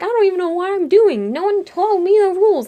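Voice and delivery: high, loud mock indignation; indignant protest. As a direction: protest defensively, pitched right up. Defensive protest in retold game.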